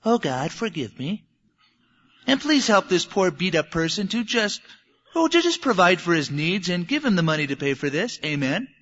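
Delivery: lightly voiced pious prayer, a touch sanctimonious; mock pious prayer. Self-righteous churchgoer praying over the man he knocked down, mock pious. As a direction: pray piously while ignoring the victim. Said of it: "with my head bowed praying".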